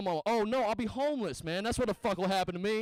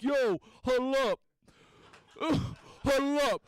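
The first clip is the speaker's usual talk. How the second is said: mock girl at bar; 5 semitones higher than usual. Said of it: "she'll be like".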